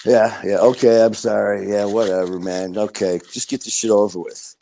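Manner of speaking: imitating a brush-off, muttered fade at the end; mock-apologize just to get it over with; lightly acted impatient, insincere sorry; dismissive apology. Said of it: "And here's me".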